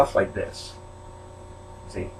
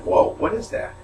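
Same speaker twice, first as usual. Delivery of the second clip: retold startled cry, higher and louder; startled whoa; 9 semitones higher, 4 dB louder than usual. Telling viewers about the noise in the trash, startled. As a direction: relive the jolt of hearing something move. Retelling fright at a sound in box.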